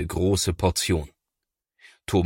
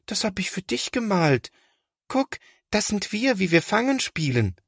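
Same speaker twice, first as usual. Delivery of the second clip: put-on high, eager small child's voice; high little brother voice; little boy; 13 semitones higher than usual. A narrator's reading. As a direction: show off the drawing hopefully. Little Linus shows his drawing.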